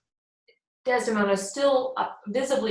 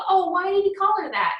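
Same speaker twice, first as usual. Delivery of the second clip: much higher, louder hammed-up shock; mock surprise; 11 semitones higher, 6 dB louder than usual. Iago pretends shock to Emilia, hammed-up surprised squeal. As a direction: fake astonishment, overdone.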